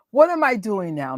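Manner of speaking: ordinary talk, nothing marked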